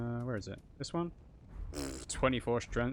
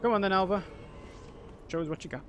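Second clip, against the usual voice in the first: taunting call; 8 semitones higher, faster than usual. Real, not acted. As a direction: dare the enemy to come. Taunting an invading enemy.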